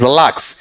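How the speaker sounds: रिलैक्स with a light first syllable and weight on लै; stress on second syllable. Shown as a demonstration. Teacher asks students where the stress falls, stressing रिलैक्स on लै. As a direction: lean on the लै of रिलैक्स. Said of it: "रे पे जोर है या ले पे".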